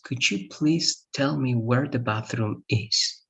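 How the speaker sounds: slow, careful polite request. Shown as a demonstration. Teacher asks a stranger for the bathroom, slow and polite. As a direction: ask a stranger slowly and courteously. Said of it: "it's not the same as".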